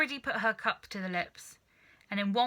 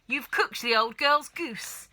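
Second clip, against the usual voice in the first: louder, slow accusation; glaring reproach; 4 semitones higher, 6 dB louder, slower than usual. Acted. Wife glaring and blaming her husband, louder and slow. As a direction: blame him through the teeth. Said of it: "glaring at her husband".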